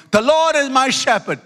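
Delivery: proud recitation. Retold or imitated. Nervous pupil finally reciting to the class, proudly. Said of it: "he said proudly".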